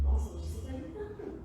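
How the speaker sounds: mildly tender observation; note it kindly, with a light touch; caring. Shown as a demonstration. Helper noticing someone's irritation, gently caring. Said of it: "Aí você fala com carinho".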